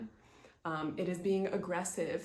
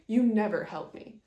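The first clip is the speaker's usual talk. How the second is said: mock accusing; 5 dB louder than usual. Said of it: "which is accusing".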